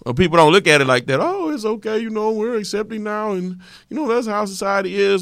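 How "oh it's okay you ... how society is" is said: higher, softer sarcastic parody voice; mocking imitation. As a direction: parody the naive crowd, soft and high. Mocking the accepting public.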